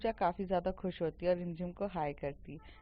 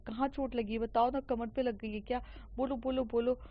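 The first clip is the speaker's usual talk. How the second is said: panicky; 2 semitones higher than usual. Retold or imitated. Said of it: "एकदम से वो बहुत पैनिक हो जाती है".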